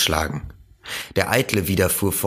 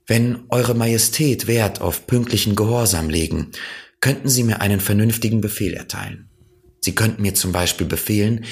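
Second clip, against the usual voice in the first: lightly voiced child, a bit higher; a hint of a boy answering earnestly; little prince; 4 semitones higher than usual. The prince addresses the king. (leicht kindliche Stimme des kleinen Prinzen)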